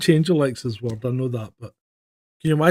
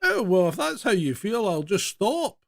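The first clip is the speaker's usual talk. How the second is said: higher, softer mock-polite AI voice; huffy phone assistant; 5 semitones higher, 5 dB quieter than usual. Phone assistant replying to angry owner, lightly voiced polite retreat. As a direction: lightly imitate an assistant backing down, pitched up. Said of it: "And it's going".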